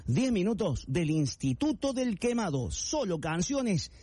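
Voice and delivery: slow, stretched-out radio build-up; drawn-out segment announcement; showman announcer. Pretend. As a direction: draw out each word, rising on the last phrase.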